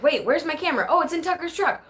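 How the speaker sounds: mock startled, rising up high; playing her own panic as she remembers the camera; sudden realization. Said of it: "I was like".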